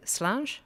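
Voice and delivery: "Slàinte" said as SLAHNJ; demonstrating a toast. Shown as a demonstration. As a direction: present "Slàinte" clearly for repeating, lifted at the end. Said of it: "I'm gonna say".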